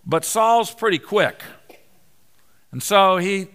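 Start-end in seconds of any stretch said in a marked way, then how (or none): none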